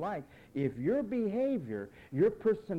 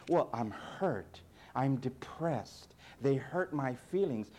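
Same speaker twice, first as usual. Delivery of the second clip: slow, self-pitying mock whine; imitating a moping complainer, slow; 3 semitones lower, slower than usual. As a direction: drag it out like a sulking believer. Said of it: "you whine in the name of the Lord".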